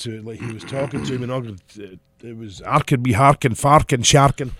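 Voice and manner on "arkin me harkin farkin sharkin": mock thick Scottish gibberish, growing louder; exaggerated incomprehensible Scottish accent; imitating brother's thick accent. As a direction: rattle off rhyming nonsense in a thick Scottish accent. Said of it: "I couldn't understand a fucking word he was saying".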